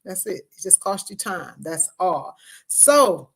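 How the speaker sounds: talking around braces and retainer; speech slurred by a retainer; wearing a retainer. Real, not acted. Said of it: "y'all see I got my retainer in, got my braces on, so that's why I'm talking a little funny".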